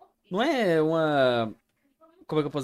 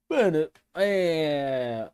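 trailing off; much slower than usual. Real, not acted. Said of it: "eu esqueci o que eu ia falar".

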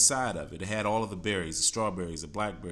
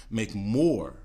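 MORE punched out, then a pause; stress on MORE; 3 dB louder than usual. Real, not acted. Coach urging listeners toward healthier choices, MORE stressed. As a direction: lean hard on the word "more". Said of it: "I stress the word more".

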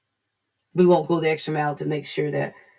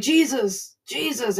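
higher-pitched imitated call for Jesus; 6 semitones higher, slower than usual. Blind man calling for Jesus from the roadside, mock calling out. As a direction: cry out like the blind beggar, lightly acted.

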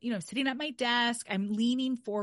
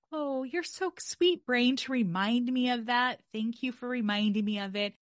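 sweet thanks to brain; 3 semitones higher than usual. Shown as a demonstration. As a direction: coo it like praising a child. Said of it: "Sometimes I like to say".

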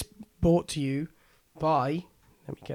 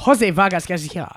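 put-on Venezuelan accent. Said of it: "That's better".

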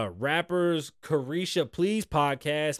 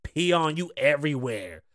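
mock confirmation; 4 dB louder than usual. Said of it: "Miami confirmed".

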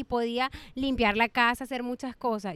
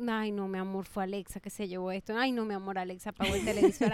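lower, softer motherly fib, acted; soothing parent excuse; 5 semitones lower, 5 dB quieter than usual. Mother blames Alexa to her child, soothing. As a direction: retell a gentle excuse to a child.

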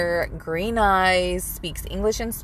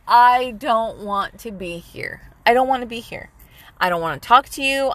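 retold exasperation; 3 semitones higher than usual. Woman retelling how she wanted out of the date, mild exasperation. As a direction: recount being thoroughly done with someone, mildly emphatic.

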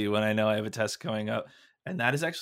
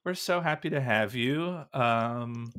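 serial killer; 2 semitones higher, 10 dB quieter, slower than usual. Real, not acted. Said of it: "you sound like a serial killer".

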